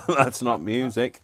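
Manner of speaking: giggling through the words; laughing. Real, not acted. Crafter laughing at her own bad singing. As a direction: laugh it off, slowed.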